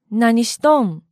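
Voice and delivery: everyday Kansai intonation; Kansai dialect. Shown as a demonstration. Teacher showing everyday Kansai speech, in Kansai intonation. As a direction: say it as a casual Kansai question. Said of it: "日常会話で使われる表現では".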